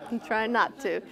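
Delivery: repeating it through a laugh. Retold or imitated. Retelling the priest's reply while laughing. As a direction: say it again while still laughing.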